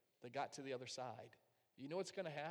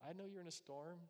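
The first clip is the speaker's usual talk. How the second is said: gentle reassurance; 3 semitones higher, 5 dB quieter than usual. Retold or imitated. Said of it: "God says".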